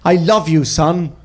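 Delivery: lightly acted earnest father, falling tone; a hint of a sincere father; sincere TV dad. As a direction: play a sitcom dad's heartfelt moment, understated. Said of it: "looked his son dead in the eyes".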